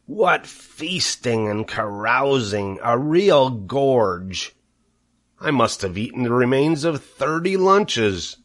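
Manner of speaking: a lightly voiced greedy rat, savouring; gloating rat. Rat boasting to the barn of rotten food, gloating. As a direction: relish every word of the feast. Templeton boasts of his feast.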